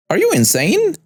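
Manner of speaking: high-pitched outraged scream. A narrator's reading. Old woman confronting the stepmom, screaming high. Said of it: "the entitled woman screams".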